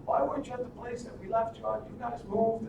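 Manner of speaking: high, scolding mother without the volume; mock yelling. Mother scolds the returned kids, high-pitched mock yelling. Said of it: "the mother is yelling at them".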